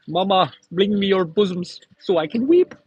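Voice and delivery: high, put-on whining to mama; hammed-up baby voice to mama; mock crybaby. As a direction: whimper for your mommy.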